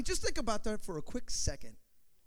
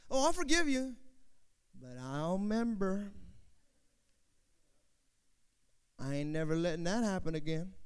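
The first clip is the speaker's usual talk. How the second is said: grudging forgiveness. Acted.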